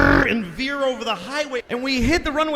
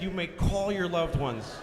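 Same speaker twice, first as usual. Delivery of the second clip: quiet repeat; 3 semitones lower, 9 dB quieter than usual. Retold or imitated. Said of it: "He said".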